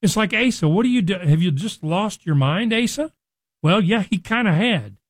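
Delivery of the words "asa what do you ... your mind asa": rising high on both calls of Asa; incredulous scolding. Pretend. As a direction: ask it as if he's lost his mind. Preacher scolds Asa in disbelief.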